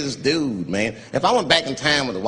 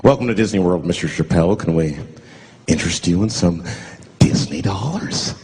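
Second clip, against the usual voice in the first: hotel clerk; 8 semitones lower than usual. Retold or imitated. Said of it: "As soon as I check in the hotels".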